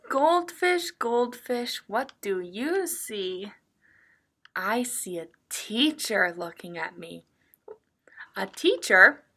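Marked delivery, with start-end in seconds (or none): 0.1-7.3 picture-book reading. Acted. Teacher reads a picture book to young children, sing-song reading. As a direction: read it in a lilting story rhythm.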